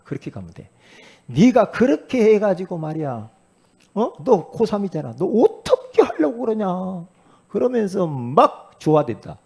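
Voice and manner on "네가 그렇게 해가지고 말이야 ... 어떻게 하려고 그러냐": nagging scold. Retold or imitated. Mother scolding her senior child.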